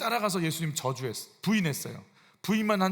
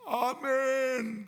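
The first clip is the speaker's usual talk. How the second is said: drawn-out amen; 7 semitones higher, much slower than usual. Acted. Preacher acting out a devoted response.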